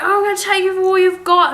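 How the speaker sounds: hammed-up blustering drunk; mocking impression. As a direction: mimic his threat as ridiculous. Mocking passenger's threat, laughing.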